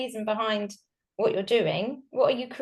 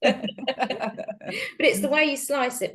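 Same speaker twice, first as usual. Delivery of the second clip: slow, laughing boast; 3 semitones higher, much slower than usual. Acted. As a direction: drag it out through a laugh.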